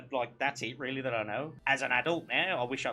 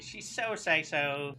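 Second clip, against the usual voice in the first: hyped-up sales pitch; 3 semitones higher, much slower than usual. Pretend. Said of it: "Try and sell it".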